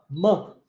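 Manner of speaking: "Man" said with an open a sound; vowel like a. Shown as a demonstration. Teacher showing the O sounds like A. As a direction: stretch the a in "Man" clearly. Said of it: "O O com som de A".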